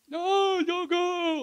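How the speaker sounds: high, loud begging cry; pleading cry. Retold or imitated. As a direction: beg him not to leave. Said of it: "like that".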